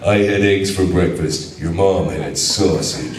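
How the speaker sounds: a hint of a cocky action hero; Duke Nukem voice. Quoting his favourite game line to the panel crowd, lightly voiced as a cocky hero. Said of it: "my favorite line from Duke Nukem Forever".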